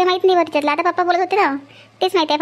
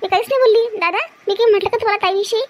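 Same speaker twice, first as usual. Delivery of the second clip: pleading; 4 semitones higher than usual. Acted. Accused sister-in-law pleading innocence.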